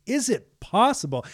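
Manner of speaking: Jesus repeating the question in disbelief; incredulous challenge. Retold or imitated. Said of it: "Jesus, from his perspective".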